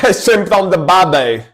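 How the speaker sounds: mock Australian accent; playful Aussie accent imitation. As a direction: put on an exaggerated Australian accent. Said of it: "That, that's Australian".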